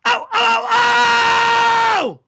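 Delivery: high loud cat yowl. Pretend. Playing the angry kitty, loud yowling. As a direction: howl like a hurt cat.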